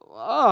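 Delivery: high mock cry; hammed-up whimpering oh; pretend wail. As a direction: cry out like a scared kid. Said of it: "I'd start crying".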